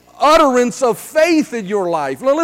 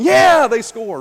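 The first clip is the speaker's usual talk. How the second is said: warming-up fan cheer; much slower than usual. Retold or imitated. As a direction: imitate a fan starting to care. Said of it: "So by midweek, I'm going".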